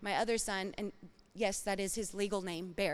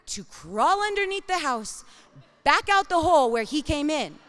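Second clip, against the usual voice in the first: encouraging mom voice; 3 semitones higher, 5 dB louder than usual. Retold or imitated. Mother coaxing scared son.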